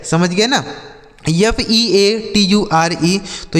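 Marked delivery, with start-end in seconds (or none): 1.3-3.2 slow letter-by-letter spelling; each letter given its own beat. Shown as a demonstration. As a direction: spell it out slowly for learners. Spells words out for learners.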